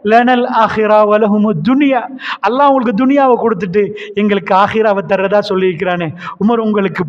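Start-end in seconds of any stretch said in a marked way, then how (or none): 0.1-2.0 slow, measured Arabic recitation. Acted. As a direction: intone the verse slowly. Quoting scripture in recitation. (மெதுவான ஓதல்)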